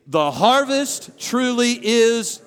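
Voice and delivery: loud, drawn-out rallying call; big, slow stadium chant; Super Bowl cheer. Shown as a demonstration. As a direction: lead a crowd like you're at the Super Bowl. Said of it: "read it like you're at the Super Bowl".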